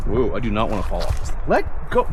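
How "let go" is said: fluttering cries for help. Pretend. Mock struggle with snagging bush.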